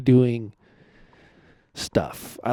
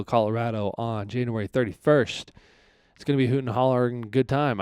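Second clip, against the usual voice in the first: upbeat podcast intro; podcast host intro. Acted. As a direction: welcome listeners like a cheery host. Redone podcast intro read.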